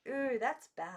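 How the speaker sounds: put-on childlike reproach; high little-girl disapproval; worried girls. A narrator's reading. Girls scold Maggie.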